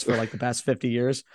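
hoarse, shot voice; raspy like a heavy smoker; smoker's rasp. Real, not acted. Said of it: "By the way, my voice is shot".

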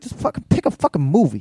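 retold impatient demand; impatient wife. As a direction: imitate a wife who has run out of patience. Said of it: "she gets so impatient".

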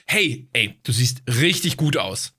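low, slow, flirtatious compliment; smooth, lingering come-on; flirty emphasis. Shown as a demonstration. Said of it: "kommt ja wirklich sehr auch auf die Betonung".

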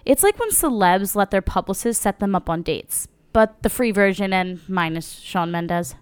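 upbeat sponsor read voice. Acted. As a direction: read it like a podcast ad. Ad read continued.

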